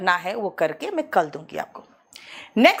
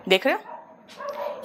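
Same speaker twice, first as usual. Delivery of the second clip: whisper; 6 dB quieter, much slower than usual. Real, not acted. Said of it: "aside to student".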